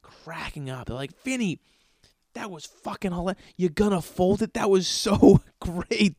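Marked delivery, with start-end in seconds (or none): 1.2-6.2 crew raving through laughter; laughing praise. Retold or imitated. Crew cracking up at his improv, laughing. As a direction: laugh while praising him.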